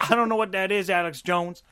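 loud, high bewildered Seagal; mock confused Seagal. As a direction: play dumb loudly as Seagal. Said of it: "mock Seagal confused".

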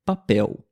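papel with the final L said as a U, papéu. Shown as a demonstration. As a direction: model papel slowly with an open U ending. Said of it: "o som é da letra U".

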